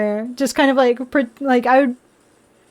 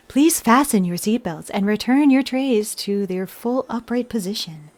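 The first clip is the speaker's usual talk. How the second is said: airplane announcement voice; 2 semitones lower, 4 dB quieter than usual. Retold or imitated. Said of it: "airplane notification".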